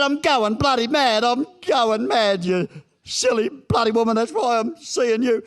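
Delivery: loud, high and drawn-out rant; exasperated outburst. Retold or imitated. Patient snapping at his counsellor, exasperated and loud. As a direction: blow up at her, stretching the words out slowly.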